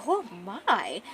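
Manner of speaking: mock-shocked gasp of a bystander, swooping; lightly hammed-up onlooker shock; scandalised onlooker. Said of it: "you can hear in the background".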